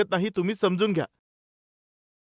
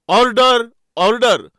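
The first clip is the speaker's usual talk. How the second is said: loud, drawn-out courtroom call; raised-voice mock judge's command; judge calling order; 2 semitones higher, 6 dB louder, slower than usual.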